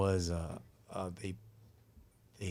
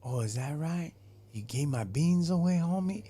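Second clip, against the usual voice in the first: mock confrontation; 7 semitones higher, 4 dB louder than usual. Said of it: "He was all like".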